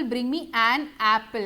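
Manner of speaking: very slow, each word separate; slow example. Shown as a demonstration. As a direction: spell out the example slowly. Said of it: "For example".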